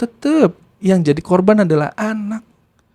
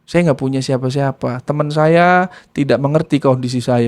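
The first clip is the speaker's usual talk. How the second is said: understated weepy plea, vowels stretched; retold crying. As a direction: imitate a tearful child pouring it out.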